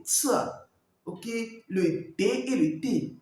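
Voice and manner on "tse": "tse" as a ts burst; pinyin C sound. Shown as a demonstration. Coach demonstrating Chinese C, "tse" said alone. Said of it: "Le C".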